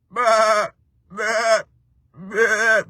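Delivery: high, loud bleating baa; sheep bleat. Shown as a demonstration. Host bleating like a sheep for his viewers, loud high baa. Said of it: "Do I sound like a sheep?".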